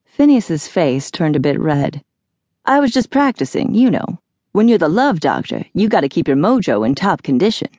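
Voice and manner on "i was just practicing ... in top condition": lightly voiced dude bragging, pitch swooping; lightly voiced cocky Phineas. Phineas excuses himself to Jack, cocky and casual. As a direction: play a self-styled love doctor, lightly.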